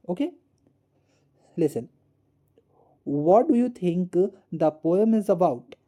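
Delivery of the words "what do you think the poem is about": slow read-out. Shown as a demonstration. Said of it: "teacher reads the question slowly".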